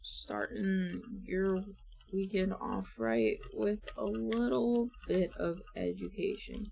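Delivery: slowly feeling out the script; slow careful read. Shown as a demonstration. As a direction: read it word by word, unsure. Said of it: "we will start with some scripting".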